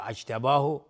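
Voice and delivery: "اجتباه" said as ajtabahu; wrong starting vowel a. Shown as a demonstration. Teacher rejects a wrong vowel, "اجتباه" as ajtabahu.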